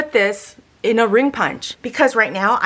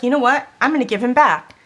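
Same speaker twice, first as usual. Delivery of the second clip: retold frustration; 3 semitones higher, faster than usual. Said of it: "I was so frustrated".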